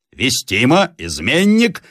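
high-pitched, emphatic confirmation; mild shout. A narrator's reading. Peasant confirming the captive is a traitor, mild shout. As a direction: cry out the accusation with certainty. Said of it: "закричал Ерёма".

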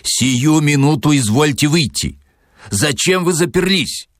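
high, indignant call through a door; acted angry yell at contained volume; mock shout. A narrator's reading. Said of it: "и крикнул".

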